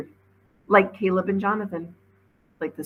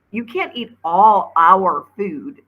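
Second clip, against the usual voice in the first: defensive; 3 semitones higher, 9 dB louder, much slower than usual. A narrator's reading. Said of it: "a little defensively".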